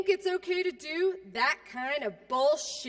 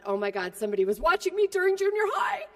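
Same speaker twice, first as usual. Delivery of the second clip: mock teen girl; 3 semitones higher, faster than usual. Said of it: "as I like to call it".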